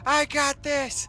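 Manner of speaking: very high, slow squeaky cartoon voice; tiny bug boasting in a very high squeaky voice; mock squeaky tick. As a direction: play the tiny overconfident tick in a chipmunk squeal. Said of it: "He's like".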